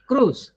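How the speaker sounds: "Cruise" said "krooz"; silent i. Shown as a demonstration. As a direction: say "Cruise" with one long oo vowel. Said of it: "The I is silent".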